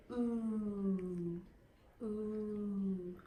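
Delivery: ooh with lips pushed forward; "Ooh" said with pouted, rounded lips. Shown as a demonstration. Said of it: "protrude your lips and say".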